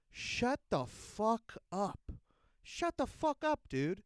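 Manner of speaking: shouted, rising high in fury; angry yell. Real, not acted. Ranting vlogger yelling at the mayor, furious. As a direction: tell him off hard.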